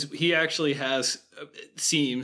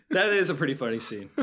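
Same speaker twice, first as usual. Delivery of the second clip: laughing. Real, not acted. Laughing after describing scene.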